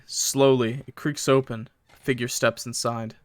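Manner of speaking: measured, moody first-person narration; story narration. A narrator's reading. Streamer reading a horror story to chat, measured narration. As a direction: read it as a grim tale.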